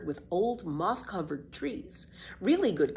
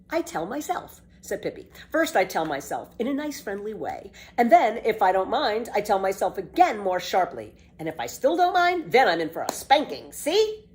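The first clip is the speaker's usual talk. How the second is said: put-on bold, bright-eyed girl, a bit louder; lively girl Pippi; 4 semitones higher, 5 dB louder than usual. Pippi defends walking backward to Tommy, cheeky girl voice.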